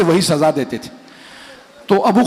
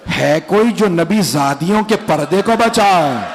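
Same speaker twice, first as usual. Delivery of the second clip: lamenting recitation building to wail; slower than usual. Acted. Preacher rousing the mourners to weep, rising lament. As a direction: build the lament until it breaks out.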